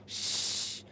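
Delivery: whispered श with the tongue curled; sha sound demo. Shown as a demonstration. Teacher to students, a whispered श. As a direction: curl the tongue back for श. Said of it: "आप ध्यान दो".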